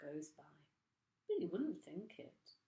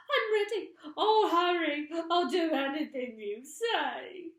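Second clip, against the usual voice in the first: very high, loud frantic plea; frantic cry; 10 semitones higher, 13 dB louder than usual. A narrator's reading. Mrs Twit frantically agreeing with her husband. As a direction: blurt it in panic. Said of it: "cried Missus Twit".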